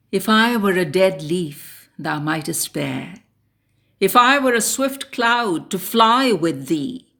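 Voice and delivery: measured, impassioned ode reading; poem recitation. Acted. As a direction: recite it as a solemn invocation to the wind. Recites an ode after introduction.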